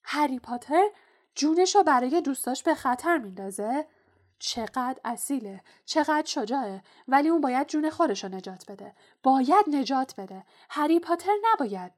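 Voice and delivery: high, loud impassioned elf; roar-like. A narrator's reading. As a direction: cry out as if entranced. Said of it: "با صدای غرش مانندی گفت".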